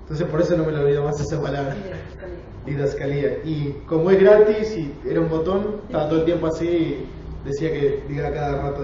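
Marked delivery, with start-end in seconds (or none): 2.7-3.4 "Didascalía" with the accent on the í; stress on final I. Shown as a demonstration. Teacher recalling the word learned, "Didascalía" with stressed í. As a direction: repeat "Didascalía", leaning on the final í. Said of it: "con acento en la I".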